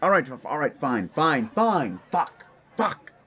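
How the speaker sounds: flustered, sputtering surrender; exasperated. Acted. Visitor pushed to get to his questions, exasperated. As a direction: give in with mounting irritation. Visitor gives in to pressed demand.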